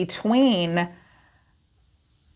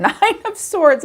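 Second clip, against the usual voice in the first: kind gentle laugh; 9 semitones higher than usual. Real, not acted. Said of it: "Sorry, I'm not laughing at you".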